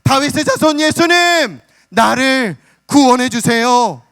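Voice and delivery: a beggar's near-chanted cry for rescue; full-throated wail. Retold or imitated. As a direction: wail it out in a sung plea at full voice. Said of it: "목청이 터져라 외칩니다".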